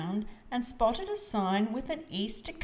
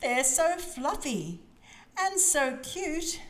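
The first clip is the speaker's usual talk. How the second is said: put-on high, slow, gushing child character; drawn-out, high-pitched storybook delight; adoring; 7 semitones higher, slower than usual. A narrator's reading. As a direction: gush slowly over something cute. Child character adores fluffy chicks.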